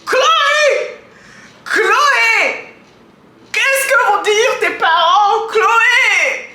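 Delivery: high loud shouted name; calling out. Real, not acted. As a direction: call her name across the room. Calling out to the singer.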